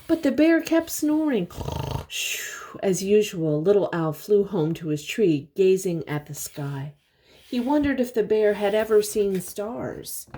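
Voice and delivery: gentle storybook narration; reading to children. A narrator's reading. Reading picture book aloud.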